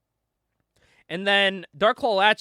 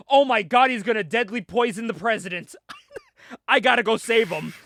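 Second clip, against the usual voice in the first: louder, higher burst of hammy panic; mock alarm; 4 semitones higher, 3 dB louder than usual. Host voicing comic hero fearing for the president, mock alarm. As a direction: overplay the hero's sudden alarm.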